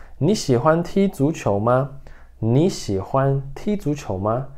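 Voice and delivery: "你喜欢踢足球吗" said slowly and clearly; model pronunciation. Shown as a demonstration. Teacher repeating the Mandarin sentence for students. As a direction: model it again carefully. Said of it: "De novo".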